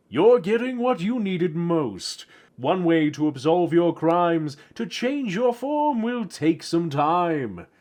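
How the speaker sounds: drawn-out, theatrical rhyming verdict; axolotl's answer. Acted. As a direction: pronounce the sentence slowly and grandly. Axolotl answers Bill in poem.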